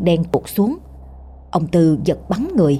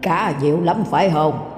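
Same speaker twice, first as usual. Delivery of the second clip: soft sly ghost voice; a sly old spirit asking for offerings; 4 dB quieter than usual. Acted. Ghost tells Tư to bring an offering, soft and sly.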